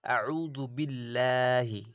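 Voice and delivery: আউযু বিল্লাহি drawn out slowly, thin ল; recited light. Shown as a demonstration. A Quran teacher to students, reciting a light example. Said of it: "দেখুন লা".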